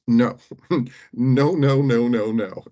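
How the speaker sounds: a stern reminder with a chuckle; emphatic no. Real, not acted. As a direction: shut the idea down, half laughing. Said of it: "just a very emphatic reminder".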